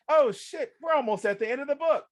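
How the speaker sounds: high, loud, fast panic; reader panic. Retold or imitated. Reader nearing the end, high fast panic. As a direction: rush it out in rising alarm.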